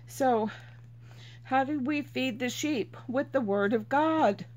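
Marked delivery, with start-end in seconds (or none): none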